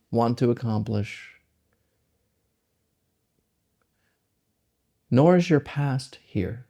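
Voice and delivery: slow meditation guidance with long pauses; unhurried, spacing each phrase out to let it settle; guided meditation. Acted. Guide leading listeners into the present moment, meditative and slow.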